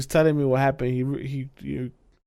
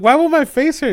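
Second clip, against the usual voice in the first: higher, louder baffled question; higher baffled outrage; bewildered; 11 semitones higher, 8 dB louder than usual. Retold or imitated. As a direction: ask it outraged and confused. Hears he was slapped.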